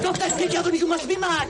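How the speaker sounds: high, desperate plea; scared begging to stop the fight; frantic pleading. Acted. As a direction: beg him to stop in alarm.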